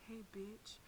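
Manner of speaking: soft sly whisper; a hushed teasing whisper from God. Retold or imitated. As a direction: breathe it into her ear. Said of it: "God whispers in my ear ever so gently".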